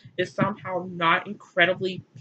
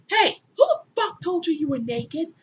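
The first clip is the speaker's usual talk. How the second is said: high, put-on angry God; hammed-up booming God; mock God outrage; 8 semitones higher than usual. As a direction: bark it as an indignant deity. God's mock outraged quote.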